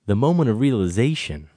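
drawn-out, halting monologue delivery; deliberate hammy soliloquy, phrase by phrase; very slow. Acted. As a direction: intone it slowly with long dramatic pauses. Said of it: "Have you ever talked that slowly".

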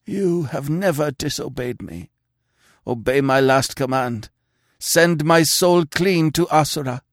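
high, loud commanding voice building to a cry; imperious command. Acted. Dying king commands his sister to strike, building imperious. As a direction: order her with a king's authority. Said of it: "the old imperious note in his failing whisper".

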